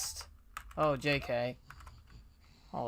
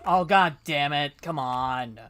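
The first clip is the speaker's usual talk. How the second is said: frustrated; 6 dB louder than usual. Real, not acted. Frustrated player fails again.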